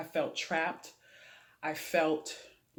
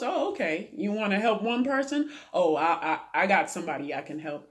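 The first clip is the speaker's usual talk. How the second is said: voicing God; 2 semitones higher, 4 dB louder, faster than usual. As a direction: play God, amused and eager to help. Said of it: "He goes".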